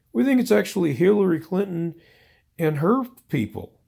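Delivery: a mock Trump spokesperson insisting it was the other side. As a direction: brush it off like a spin doctor. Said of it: "spokesperson ... is saying".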